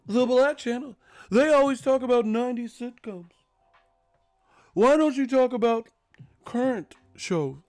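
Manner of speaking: very high, loud put-on whine; mock complainer voice. Mock viewer griping about nineties sitcoms, high loud voice.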